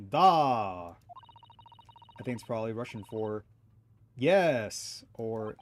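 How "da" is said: imitating barked da. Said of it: "It sounded like".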